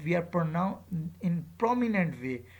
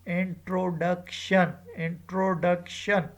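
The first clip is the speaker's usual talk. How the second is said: "introduction" said slowly, DUC forceful and held; slow demonstration of "introduction", little force on "in", more on DUC; stress on third syllable; slower than usual. Shown as a demonstration. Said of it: "D U C is said with force".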